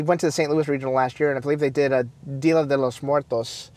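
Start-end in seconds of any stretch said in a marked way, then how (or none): 2.4-3.7 Dia de los Muertos in a light Spanish accent. Shown as a demonstration. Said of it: "that's my Spanish accent".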